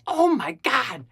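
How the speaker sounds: high-pitched mock panic; hammed-up horrified exclamation; acted freaking out. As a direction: cry out in retold alarm. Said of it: "I was freaking out".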